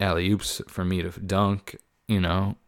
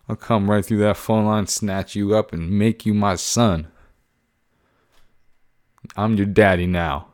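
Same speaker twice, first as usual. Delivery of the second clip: mock threat; 4 dB louder than usual.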